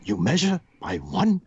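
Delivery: dubious mock Mexican accent with a rolled tongue; imitated broken-English Mexican accent. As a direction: put on a bad Mexican accent, halting English. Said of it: "his English wasn't the best".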